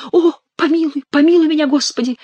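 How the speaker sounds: high, whiny imitation of the king; hammed-up high nasal prayer; nasal pleading. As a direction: beg for mercy through the nose, mockingly. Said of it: "гнусавя, как король".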